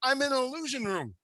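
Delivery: hushed eerie whisper. Acted. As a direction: breathe it like a secret. Whispered reveal, then repeated plainly.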